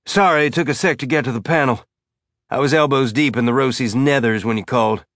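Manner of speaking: breathless, panting between words; out of breath from rushing over. Acted. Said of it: "He sounded out of breath".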